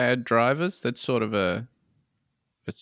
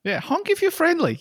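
squeaky cheerful slogan voice; high silly voice. Pretend. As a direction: chirp it like a goofy sign. Riffing on the honk slogan.

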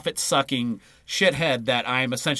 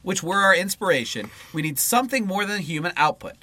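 measured read-aloud voice; book reading. Acted. Co-host reading political book to partner, read-aloud style. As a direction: read the political text out in full phrases.

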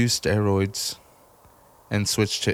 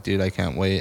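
excited words with no lift; deadpan, level eagerness; monotone excitement; 2 semitones lower than usual. Retold or imitated. Monotone talker telling people he's excited, deadpan. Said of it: "it's just all monotone".

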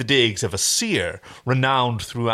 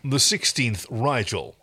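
Walter Cronkite voice. Acted. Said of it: "a sort of Walter Cronkite".

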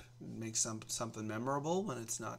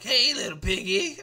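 raised, louder teasing call; cooing piggy talk; 7 semitones higher, 10 dB louder than usual. Acted. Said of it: "people just think if you say".

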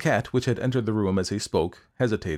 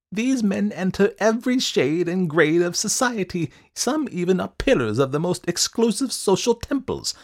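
high, emphatic little man; high-pitched, self-important speechifying; eccentric schemer, boastful; 8 semitones higher, 4 dB louder than usual. A narrator's reading. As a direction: proclaim it proudly in a high voice. Wilde boasts of his trade.

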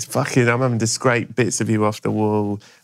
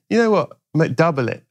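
cocky boast; 6 semitones higher than usual. Retold or imitated. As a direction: show off to the whole gym. Boasting at the gym.

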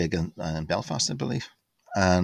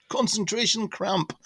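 shouted song title; 12 semitones higher than usual. Retold or imitated. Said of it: "shouting stuff like".

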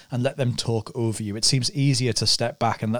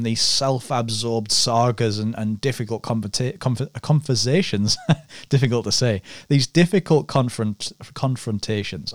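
loose dentures. Real, not acted. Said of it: "I'm gonna put my teeth back in".

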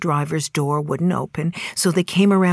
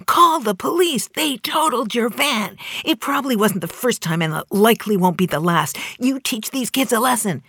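mild mock yell; 6 semitones higher than usual. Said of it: "they are screaming at me".

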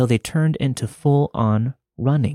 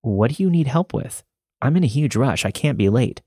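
bright polite customer service voice; chirpy, helpful shop-clerk tone; 4 semitones higher than usual. Retold or imitated. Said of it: "In my best customer service voice".

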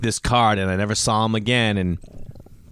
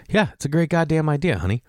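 mock chauvinist; 6 semitones higher than usual. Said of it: "But I would never say honey".

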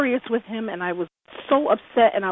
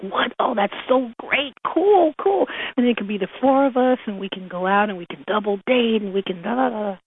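excited; 2 semitones higher than usual. Retold or imitated. Acts out delight at friend's news.

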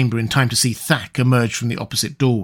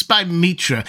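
higher, sharp oath of amazement; startled oath; 6 semitones higher than usual. Acted. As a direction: blurt the god's name in surprise.

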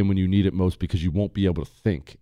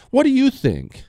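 much higher mock wife voice; wife asking; 14 semitones higher than usual. Wife suddenly asks her man a question, high mock voice. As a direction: play the girlfriend checking if he listened, high. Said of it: "says something to the effect of".

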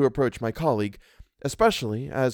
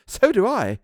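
higher, eager exclamation; 10 semitones higher, 5 dB louder than usual. A narrator's reading. Governess agrees with housekeeper, eager. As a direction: jump in eagerly. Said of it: "I eagerly brought out".

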